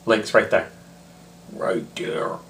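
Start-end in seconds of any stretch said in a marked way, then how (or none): 1.5-2.4 soft whispered aside; whispering. Real, not acted. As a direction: whisper it, pointing. Pointing to link.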